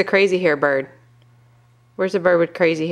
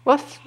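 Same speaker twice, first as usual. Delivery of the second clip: high, short playful bark; puppy woof; 7 semitones higher than usual. Pretend. Parent answers for the puppy dog, woofing. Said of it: "What does a puppy dog say?".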